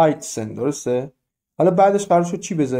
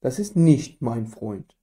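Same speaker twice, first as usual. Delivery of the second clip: Das ist nicht mein Freund, said very slowly, each word apart; slow German demo; 3 semitones lower, much slower than usual. Shown as a demonstration. Teacher modelling the German sentence slowly. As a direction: read it out slowly for learners. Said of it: "خب پس das ist".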